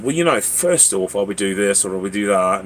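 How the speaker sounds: put-on British accent for a panel. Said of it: "talking with a British accent like that".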